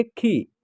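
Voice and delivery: खी said simply with a short i; a brief, unstretched खी; short vowel. Shown as a demonstration. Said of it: "उच्चारण simple तरीके से करेंगे".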